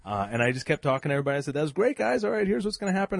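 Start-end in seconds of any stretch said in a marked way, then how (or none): 1.5-3.2 higher, louder hype-man crowd call; imitating himself as an excited emcee. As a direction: pump up the room like a host on stage. Retold MC addressing crowd.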